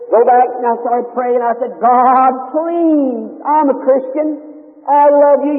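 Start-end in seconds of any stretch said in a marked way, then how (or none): 1.8-5.5 raised, pleading prayer retold; retold plea, pitched up; begging prayer. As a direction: plead with God, voice lifted. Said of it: "And I was begging to him".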